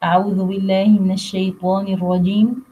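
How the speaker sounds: rapid Quranic recitation formula; quick recitation. Acted. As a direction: recite it briskly before the verse. (تلاوة سريعة)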